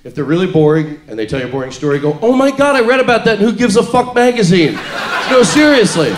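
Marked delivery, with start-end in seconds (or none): 2.2-4.7 oversell it like you're thrilled; mock-amazed reaction to a boring story; sell it excited. Shown as a demonstration. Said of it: "you gotta sell it really well". 5.3-6.1 louder, pushy insistence with a laugh; mock earnest, higher and louder; insistent. Shown as a demonstration. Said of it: "Sell it really good".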